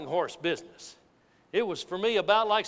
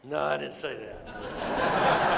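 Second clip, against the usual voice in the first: laughing; 6 semitones lower, much slower than usual. Real, not acted. Laughs at his own joke.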